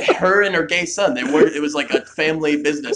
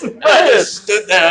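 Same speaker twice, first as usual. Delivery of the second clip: slower, louder words through laughter; laughing; 7 semitones higher, 7 dB louder than usual. Real, not acted. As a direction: laugh it out, slightly higher. Laughing retelling his inaction.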